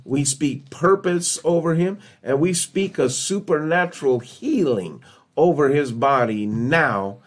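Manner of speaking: declarative healing prayer, settling at the close; spoken prayer. Real, not acted. Preacher praying healing over Joseph, earnest prayer. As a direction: declare each blessing in measured phrases.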